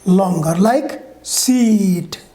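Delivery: "seat" with a stretched ee; long ee in seat. Shown as a demonstration. Teacher modelling the long vowel, stretched ee. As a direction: draw out the ee in "seat". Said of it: "E sound is longer".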